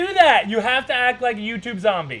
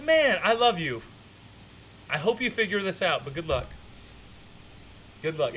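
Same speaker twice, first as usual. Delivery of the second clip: tender; 5 dB quieter than usual. Pretend. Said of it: "I was like".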